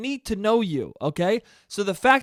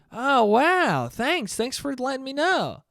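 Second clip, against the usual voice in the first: creepy vice principal; 6 semitones higher, slower than usual. Retold or imitated. Vice principal thanks twelve-year-old friend.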